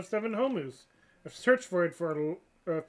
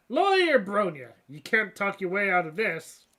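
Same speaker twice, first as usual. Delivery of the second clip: triumphant accusation; 7 dB louder than usual. Acted. Detective confronts the suspect.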